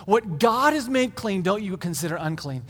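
deliberate divine command, settling downward; lightly voiced solemn instruction, falling away; solemn pronouncement.

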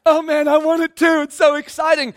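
a lightly hammed-up eager listener; mock inspired. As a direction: play the fired-up listener. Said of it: "So, inspired, right?".

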